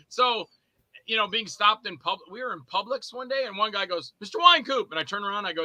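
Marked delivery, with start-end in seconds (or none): 4.2-4.9 raised, higher fan's hail; imitated hail to get attention; retold calling out. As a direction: call his name across the store. Fan hailing him in a store.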